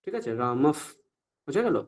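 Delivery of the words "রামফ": রামফ ending in a blown f; released half ফ. Shown as a demonstration. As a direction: release the lips and let air out ending রামফ. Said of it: "ওষ্ঠটাকে release করব". (ওষ্ঠ ছেড়ে অর্ধ ফ)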